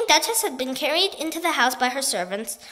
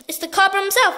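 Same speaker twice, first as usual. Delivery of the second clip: amazed shout; 6 semitones higher, 5 dB louder than usual. A narrator's reading. Chief continues.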